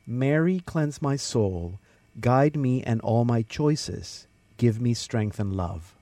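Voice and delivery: slow, unhurried prayer recitation; prayer reading. Real, not acted. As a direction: give each line room, like praying aloud. Host reads a listener's prayer.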